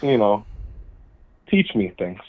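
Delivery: slurring a little, loose and tipsy. Real, not acted. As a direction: talk like you've had a few drinks. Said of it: "don't call when you're drunk".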